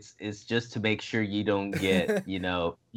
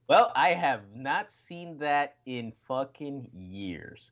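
retold amazement; 2 semitones higher, slower than usual. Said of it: "I'm like".

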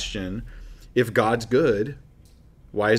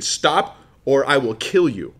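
mock yelled threat; 2 semitones higher, slower than usual. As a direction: act a threat, slowing down without really yelling. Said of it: "I yell at you again".

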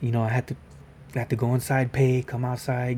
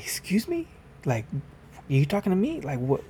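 indignant disbelief; 3 semitones higher than usual. Retold or imitated. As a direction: act offended that he spoke to you like that. Indignant reply to a rude stranger.

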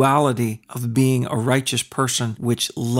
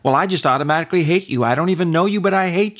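higher mock voice of a prejudiced person; mock bigot; 5 semitones higher, much faster than usual. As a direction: play a prejudiced stranger, raised pitch. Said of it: "Based on".

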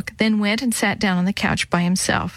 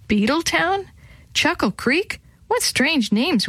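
amused surprise; 8 semitones higher than usual. A narrator's reading. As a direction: pitch jumps up high, slowing on the strange names. Willie interrupts, amused by names.

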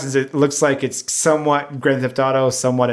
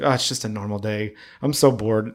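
mock boredom, pitched a bit lower; blasé; 4 semitones lower, 4 dB quieter than usual. Game character unfazed by gunfire and punches, blasé. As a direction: shrug it off as routine. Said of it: "the best part is how blasé everyone acts".

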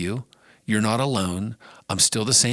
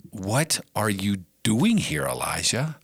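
God's voice, plain read. Acted. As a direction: read it straight from scripture. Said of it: "this is God's voice".

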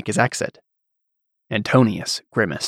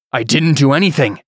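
desperate protest; 4 semitones higher, 3 dB louder than usual. Acted. Antonius protesting.

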